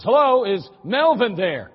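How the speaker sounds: bright, polite caller voice; polite phone caller. Acted. Father calling again, politely asking for Melvin. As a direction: ask nicely on the phone. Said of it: "dials the exact same number and says".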